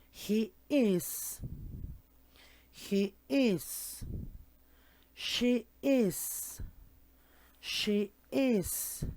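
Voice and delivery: each pronoun with "is", said twice clearly; pronunciation drill. Shown as a demonstration. Teacher drilling "is" pairs with the class. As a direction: drill "He is", "She is", "It is" slowly. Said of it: "Now we're going to practice the pronunciation".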